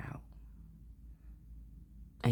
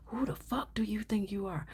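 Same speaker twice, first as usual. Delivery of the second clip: indignant challenge; 8 semitones higher than usual. Retold or imitated. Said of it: "That's what they're saying to you".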